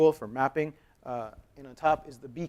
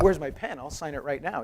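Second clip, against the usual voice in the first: mock excited; 2 semitones higher than usual. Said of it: "He was excited".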